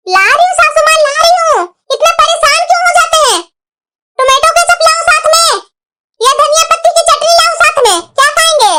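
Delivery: exasperated calling back. Acted. Daughter-in-law answering her mother-in-law's call, exasperated. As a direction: call back in testy impatience.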